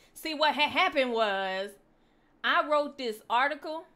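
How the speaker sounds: loud put-on Ebonics storytelling; animated Ebonics delivery; Ebonics accent. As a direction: launch a tale in an Ebonics accent. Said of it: "that's a good accent".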